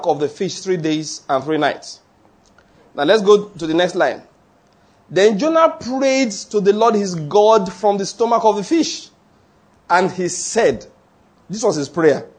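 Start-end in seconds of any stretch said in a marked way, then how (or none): 5.1-9.1 slow, emphatic scripture reading. Acted. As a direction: read the verse out slowly to the congregation. Reads scripture aloud.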